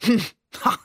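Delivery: short acted "hm, ha" laugh; hummed, grumbling little laugh; rumbling chuckle. A narrator's reading. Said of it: "Onkel Ali lachte brummend".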